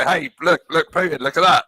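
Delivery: loud, eager sightseeing voice; mock leader pointing out views; mock excited tourist.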